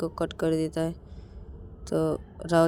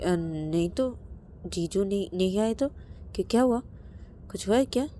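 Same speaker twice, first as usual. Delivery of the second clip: flustered surprise; 3 semitones higher than usual. Acted. Rani caught off guard by brother.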